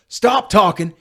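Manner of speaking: imitated dad's yell. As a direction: imitate a father yelling for help. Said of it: "he yells at me".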